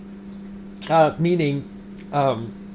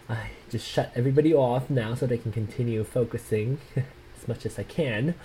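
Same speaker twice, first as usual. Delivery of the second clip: whispering; 3 semitones lower, 6 dB quieter than usual. Real, not acted. Quietly talking while typing.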